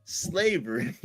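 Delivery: ordinary delivery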